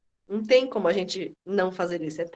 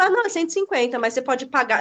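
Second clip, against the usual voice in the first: put-on old hesitant way; 2 semitones higher, faster than usual. Shown as a demonstration. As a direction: apologise for the price, pitch up on "não". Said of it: "Eu não falo mais isso". (jeito antigo, sem graça, com "não" agudo)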